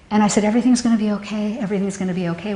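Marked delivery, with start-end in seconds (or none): 0.4-1.6 quick, comforting reassurance; reassuring. Retold or imitated. Mother reassuring her frightened little girls, fast. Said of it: "I was sobbing". 1.6-2.5 much softer, hushed comfort; soft reassurance. Retold or imitated. Mother hushing her frightened little girls, softer. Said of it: "I was sobbing".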